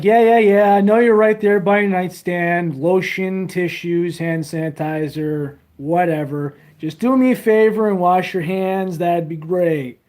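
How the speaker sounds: mock exasperated advice. Streamer mock-lecturing his viewers, loud and sarcastic. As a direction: roll your eyes and lecture them. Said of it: "I'm like".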